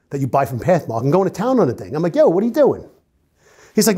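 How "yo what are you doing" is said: high, loud startled challenge; shocked yell. Retold or imitated. Cop catching the man in the car, startled shout. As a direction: catch him in the act.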